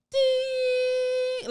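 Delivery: high sustained ringing ding. Retold or imitated. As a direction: imitate a bell in the ear. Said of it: "my ear will go".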